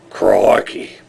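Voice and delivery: drawn-out mock Australian exclamation; Australian accent. Shown as a demonstration. Instant replay for the viewers, Australian accent. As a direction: repeat it in a put-on Australian accent. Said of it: "instant replay".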